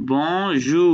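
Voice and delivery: বনজু slowly, bon then zhoo, rising; syllable-by-syllable demonstration. Shown as a demonstration. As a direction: model বনজু with two long, separate syllables. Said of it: "আ উ মিলে উ হয়".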